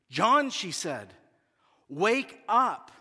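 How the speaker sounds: almost yelling at him; mock firm wife voice; near yell. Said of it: "She's not yelling, but it's coming close now".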